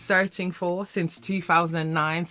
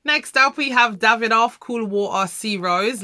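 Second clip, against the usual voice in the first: higher, louder hype for the next pick; excited intro; 4 semitones higher, 5 dB louder than usual. Real, not acted. Vlogger introducing her favourite perfume to viewers, excited.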